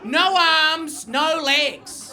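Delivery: high, loud, hammed-up demands; loud rant. Comic rants about the torso, loud mock outrage. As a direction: belt out each comic objection.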